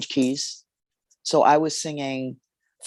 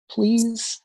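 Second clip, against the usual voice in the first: pleading; 9 semitones higher than usual. Retold or imitated. Student begs teacher to quit.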